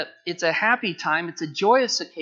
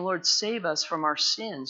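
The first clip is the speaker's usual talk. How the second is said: sincere plea. Pretend. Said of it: "where we're saying".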